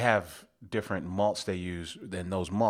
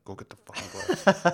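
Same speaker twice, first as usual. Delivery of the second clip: higher, louder exasperated yell; frustrated shout; 11 semitones higher, 5 dB louder than usual. Pretend. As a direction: blow up and yell it. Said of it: "Don't make me talk through my teeth".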